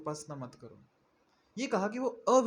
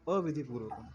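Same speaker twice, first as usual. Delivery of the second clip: अविधिपूर्वकम set apart, lower and deliberate; stress on the key word; 5 semitones lower than usual. Shown as a demonstration. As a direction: lean on अविधिपूर्वकम syllable by syllable. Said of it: "ये शब्द महत्वपूर्ण है।".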